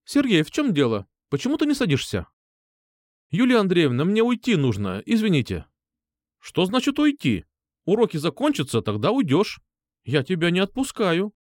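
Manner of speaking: a teacher refusing to let him go; stern teacher. A narrator's reading. Teacher to pupil trying to leave class, lightly voiced stern.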